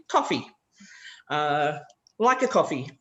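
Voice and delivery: built up from the end word "Coffee"; back chaining. Shown as a demonstration. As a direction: start with "Coffee", then add "like a coffee". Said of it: "you can start with".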